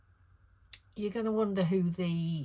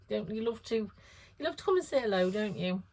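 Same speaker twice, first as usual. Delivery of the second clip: talking to the dog; 2 semitones higher than usual. Real, not acted. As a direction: coo at the dog fondly. Talking to her dog Woody.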